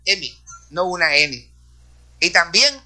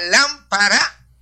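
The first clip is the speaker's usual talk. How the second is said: lámpara said slowly with LÁM punched; stressed first syllable; 5 semitones higher, much slower than usual. Shown as a demonstration. Teaching accented words, lámpara stressed on LÁM. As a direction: lean hard on LÁM in lámpara. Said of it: "se acentúa".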